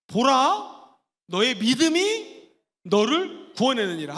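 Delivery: loud, slow proclamation of 보라; proclaiming. Shown as a demonstration. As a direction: announce it with authority. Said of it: "시작".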